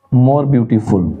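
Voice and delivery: slow answer dictation. Shown as a demonstration. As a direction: dictate it word by word for the class. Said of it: "तो क्या होगा".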